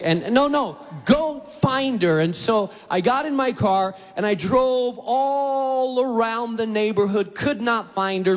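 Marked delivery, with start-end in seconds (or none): 0.3-2.2 higher, urgent call; wife urging. Retold or imitated. Wife urging husband to search for the dog, higher and urgent. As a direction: push him out the door to find her.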